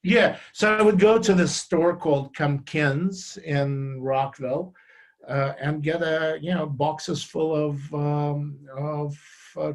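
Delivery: speaking up for the room; lifting the voice after being asked to. Real, not acted. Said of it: "can you keep your voice up a little bit?".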